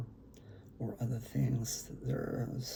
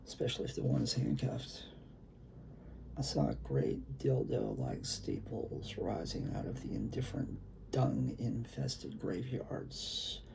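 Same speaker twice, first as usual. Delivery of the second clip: brooding performance-poet voice; poetry reading. Acted. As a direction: read it like a beat poet at an open mic. Reads his own poem aloud.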